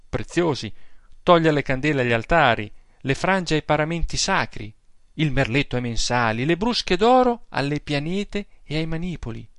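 an aggrieved pious aunt pouring out her complaints; indignant old aunt. Acted. Old aunt telling her nephew about the priest, scandalized.

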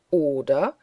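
scornful question, swooping up at the end; jeering, sharply rising echo; mocking echo. A narrator's reading. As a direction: throw the question back in derision. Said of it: "echote der Bartlett Green höhnisch".

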